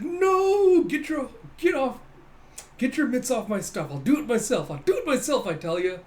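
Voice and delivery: high, loud hammed-up yelling; frantic protest. Captain as soldiers clear his stuff, frantic mock yelling.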